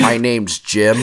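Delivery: imitating a proper self-introduction; lightly mock a very proper introduction. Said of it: "that was so proper".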